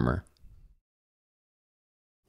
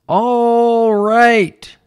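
giving in; 7 dB louder than usual. A narrator's reading. Farmer gives in.

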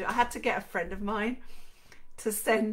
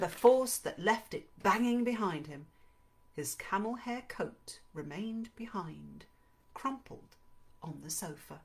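story narration; 2 semitones higher than usual. A narrator's reading. Reads the novel's narration aloud.

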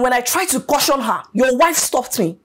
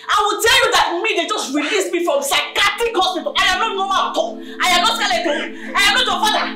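menacing boast; 6 semitones higher than usual. Acted. Claims to be mad, taunting.

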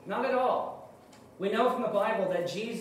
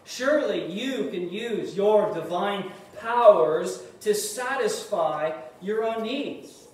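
lightly voiced Satan sweet-talking a starving Jesus; coaxing tempter; 3 semitones higher than usual. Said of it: "In other words".

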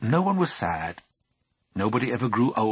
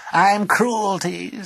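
creature voice; 12 semitones higher, 7 dB louder, much slower than usual. Acted. Creature announces itself.

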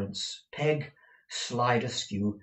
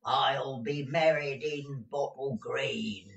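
calling out; 5 semitones higher than usual. A narrator's reading. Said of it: "This call, loudly repeated".

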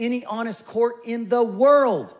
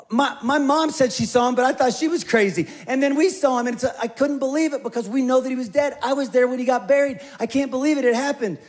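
higher, giggly witness who can't believe it; lightly voiced eager interior designer; excited witness; 3 semitones higher than usual. Witness Janet telling the court about Jesus, higher and giggly.

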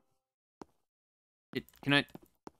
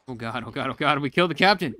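panicked; 6 dB louder than usual. Acted. Panicked reaction to killing captain.

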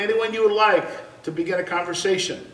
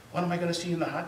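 whispered; 3 semitones lower, 8 dB quieter, much faster than usual. Retold or imitated. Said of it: "he whispered".

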